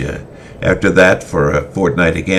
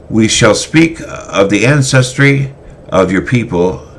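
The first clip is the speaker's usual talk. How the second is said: put-on solemn old teacher; 7 semitones higher, 5 dB louder than usual. Cornelius begins the day's lesson.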